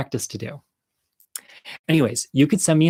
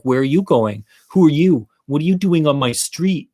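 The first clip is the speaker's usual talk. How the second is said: put-on louder, challenging kid bully; mock bullying; 3 semitones higher, 4 dB louder than usual. Neighborhood kids confronting us on their street, bullying. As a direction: imitate a bully demanding answers. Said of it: "they were kind of bullying us".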